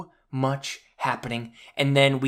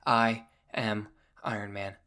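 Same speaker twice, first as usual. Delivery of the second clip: low, softer, solemn delivery; quiet heroic last line; 5 semitones lower, 7 dB quieter than usual. Retold or imitated. Fan quoting the hero's last line, hushed. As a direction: say it softly, with finality. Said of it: "and he just says".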